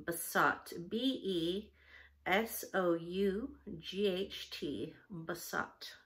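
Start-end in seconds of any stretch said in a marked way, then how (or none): 0.9-4.9 spelling out. Shown as a demonstration. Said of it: "So that's besought".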